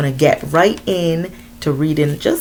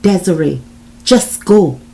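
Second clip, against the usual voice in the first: urgent plea, louder at the end; pleading; 3 semitones higher, 6 dB louder than usual. A narrator's reading. John begging Desiree to leave, urgent pleading. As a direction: urge her to leave, pleading. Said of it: "he pleaded".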